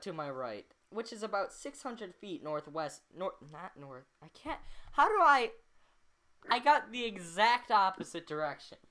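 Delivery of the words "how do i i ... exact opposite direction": ordinary delivery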